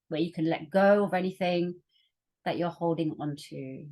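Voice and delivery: calm meditation guide, long pauses between phrases; guided meditation. Acted. Facilitator leading workshop listeners into their breath, guided meditation. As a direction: ease them gently inward, leaving room to breathe.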